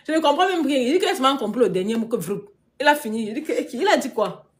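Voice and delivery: loud, high, tickled disbelief; amused bewilderment. Real, not acted. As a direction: exclaim it between bursts of laughter. Amused at not understanding the speaker.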